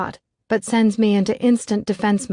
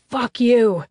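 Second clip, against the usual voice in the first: higher, mildly angry comeback; raised, defiant retort; thrown-back retort; 5 semitones higher, 4 dB louder than usual. A narrator's reading. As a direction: throw it straight back at him. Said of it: "Matt throws back".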